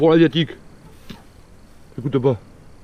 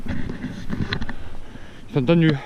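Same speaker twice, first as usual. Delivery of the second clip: slow whisper; 3 dB quieter, much slower than usual. Real, not acted. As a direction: breathe it out in a whisper. Whispered aside.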